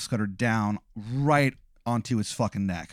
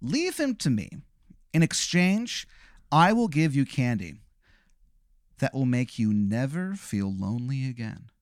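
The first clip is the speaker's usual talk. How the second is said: Sugar King pitch. Acted. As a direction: sweet-talk him like a creepy clown. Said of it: "He goes".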